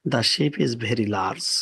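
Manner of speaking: very slow, word by word; slow example read. Shown as a demonstration. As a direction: read the ship line at a crawl for learners. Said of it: "example sentence read slowly". (ধীরে ধীরে পড়া উদাহরণ)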